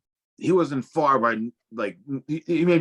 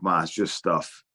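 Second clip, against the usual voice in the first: unbothered reassurance; 5 semitones lower than usual. Retold or imitated. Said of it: "he didn't really sweat it".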